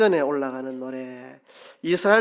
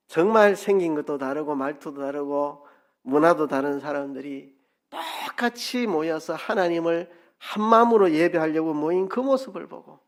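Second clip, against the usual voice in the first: ordinary talk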